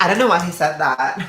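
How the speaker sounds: giggling through the words, fast; laughing it off as the Aussie friend. Retold or imitated. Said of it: "She's like".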